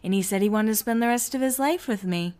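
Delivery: mock serious, understated brag; happy news told with put-on nonchalance; acting really cool. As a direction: imitate her playing it cool. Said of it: "just act really cool".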